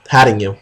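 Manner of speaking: hatting said with short a like hat; misreading hatting. Real, not acted. Puzzling over a typo aloud, saying hatting. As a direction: read hatting as written, puzzled. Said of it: "What's that".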